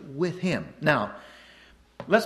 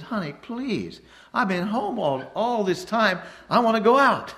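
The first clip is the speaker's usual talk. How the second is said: pleading wife; 5 semitones higher than usual. Retold or imitated.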